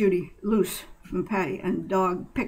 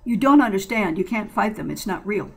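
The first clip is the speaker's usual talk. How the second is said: forceful insistence; 6 dB louder than usual. Acted.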